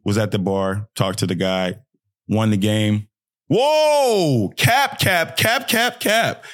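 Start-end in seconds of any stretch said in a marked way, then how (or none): 3.5-6.4 high-pitched calls of disbelief; rapid, high mock outcry; mock heckling. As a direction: leap up high and cry out like a heckler. Interrupts own story with mock heckling.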